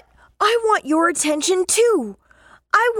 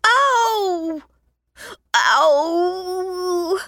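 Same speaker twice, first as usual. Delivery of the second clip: pained cry. Acted. Splinter pulled out.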